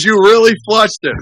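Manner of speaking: high-pitched incredulous question; mock disbelief. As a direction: ask it as the amazed sponsor, pitched right up. Sponsor retold as incredulous.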